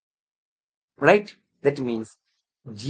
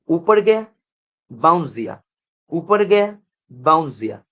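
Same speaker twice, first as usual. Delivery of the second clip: trace each rise and bounce with your voice; 4 dB louder than usual. Shown as a demonstration. Acting out a bouncing function graph.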